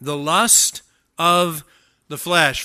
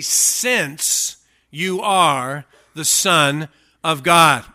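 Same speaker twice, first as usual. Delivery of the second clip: SINCE and ARE drawn out slowly, word by word; slow, weighty stress on "Since you are"; emphatic rendering; 5 dB louder, much slower than usual. Shown as a demonstration. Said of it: "In the Greek, it is actually".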